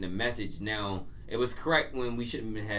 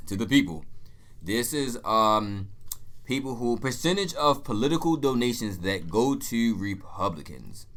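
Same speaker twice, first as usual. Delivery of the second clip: announcer voice; 3 dB louder, slower than usual. Pretend. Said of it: "announcer voice".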